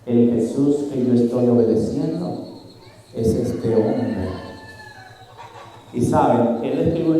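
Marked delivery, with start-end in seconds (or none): 0.1-4.3 low, soft, slow horrified whisper-like words; stunned realization. Retold or imitated. The man realizing who he obeyed, slow and hushed. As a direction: let the horror sink in slowly and quietly. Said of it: "y dijo".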